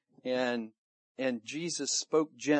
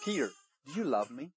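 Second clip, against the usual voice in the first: softer voice, quickly asked; gentle question; 6 dB quieter, faster than usual. Acted. Jesus to Peter around the fire, gentle question. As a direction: ask it quietly and tenderly.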